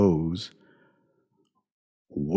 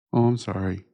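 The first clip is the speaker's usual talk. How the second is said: 1 mock apology. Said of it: "that's exactly how they say it".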